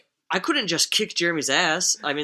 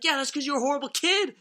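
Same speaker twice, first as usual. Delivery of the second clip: mock exasperated retort; 11 semitones higher, 3 dB louder than usual. Acted retort of Dad to Jeremy.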